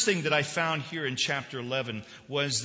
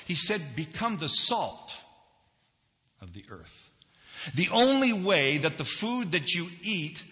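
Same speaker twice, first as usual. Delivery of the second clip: higher, louder preacher's delivery; emphatic preaching; 6 semitones higher, 6 dB louder than usual. Real, not acted. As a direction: drive each point home from the pulpit. Preaches with rising force.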